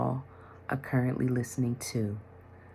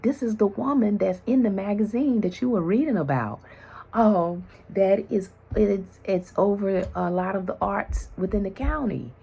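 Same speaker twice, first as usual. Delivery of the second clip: excited husband; 8 semitones higher, 4 dB louder than usual. Retold or imitated. Husband excitedly explains the woman.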